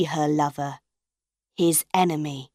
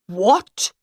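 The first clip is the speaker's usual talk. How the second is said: louder, rising outraged "What?"; indignant disbelief; startled angry exclamation; shocked shout; 4 dB louder than usual. A narrator's reading. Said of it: "Monsieur Armand shouted".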